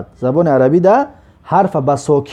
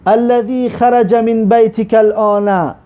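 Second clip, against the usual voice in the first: slow recitation; 4 semitones higher, slower than usual. Shown as a demonstration. Teacher repeats the Arabic clause.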